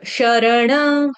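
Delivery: शरण slowly on its own, without the final m; read separately. Shown as a demonstration. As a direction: set शरण apart, last syllable held open. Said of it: "शरण को अकेला पढ़ेंगे अलग". (शरण को अलग, खींचकर)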